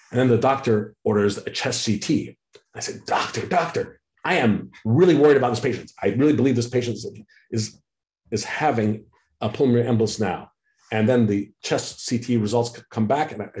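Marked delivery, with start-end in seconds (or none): 3.1-10.5 put-on eager young clinician. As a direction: play an over-eager junior, rushing after the opening call. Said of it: "as an eager to please, um, ambitious young clinician".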